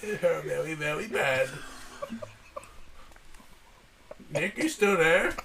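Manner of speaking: lightly put-on Asian accent dad; Chinese restaurant accent. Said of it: "you sound just like the people".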